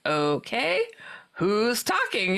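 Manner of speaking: drawn-out, skeptical okay; retold smart-aleck challenge, stretched out. Teller challenging the voice from her friend, smart aleck. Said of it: "kind of being a smart aleck".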